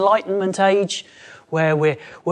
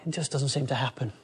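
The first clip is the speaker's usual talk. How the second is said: disappointed. Retold or imitated. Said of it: "We could be disappointed".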